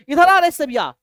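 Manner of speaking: father summoning his son in anger; hammed-up furious father; angry father calling. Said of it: "बड़ा तगड़ा level पे गुस्सा आया".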